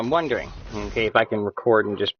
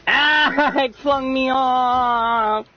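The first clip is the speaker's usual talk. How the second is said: high, slow laughing cry; laughing surprise; 14 semitones higher, 6 dB louder, much slower than usual. Real, not acted. Streamer laughing as the game flings him away. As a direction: laugh as it throws you.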